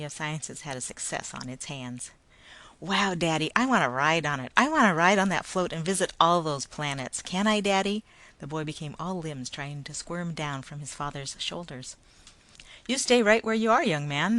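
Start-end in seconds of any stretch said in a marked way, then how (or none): 2.8-8.0 put-on excited child. Child begs to ride float. 12.9-14.4 stern father. Acted. Father scolds squirming boy.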